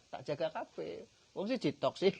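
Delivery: loud ringing divine reply; booming unseen voice. Retold or imitated. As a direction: proclaim it like a voice from the grave. Voice from the grave answers.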